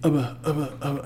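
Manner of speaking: mock tongue-tied stammer; lightly mimicked babbling; imitated stammering babble. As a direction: stutter out nonsense syllables, mimicking a flustered buddy. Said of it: "he's sitting there and he's going".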